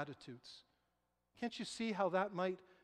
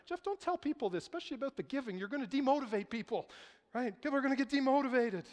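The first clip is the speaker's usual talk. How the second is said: higher-pitched, quick imitation of an objecting listener; mock objection; 5 semitones higher, faster than usual. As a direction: voice a churchgoer protesting to the pastor. Acts out a worried listener's objection.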